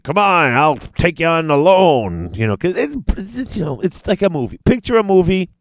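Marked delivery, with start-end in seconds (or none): 0.0-2.3 heroic challenge. Retold or imitated. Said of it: "Imperius stands up and is like".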